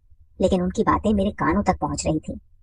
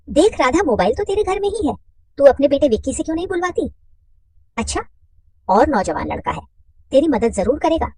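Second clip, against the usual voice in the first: higher, grumbling housewife; complaining woman's voice; 7 semitones higher than usual. Acted. Mother complaining to her friend Radha, higher. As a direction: voice her irritation up high.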